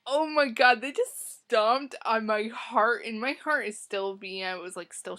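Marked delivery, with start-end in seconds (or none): 0.1-3.0 louder, higher burst of shock; loud, high oh my god. Retold or imitated. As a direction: fan yelling at the screen in a cinema, loud shocked exclamation. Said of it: "I'm like".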